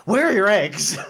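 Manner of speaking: silly high voice. Pretend. Joking bit, high loud.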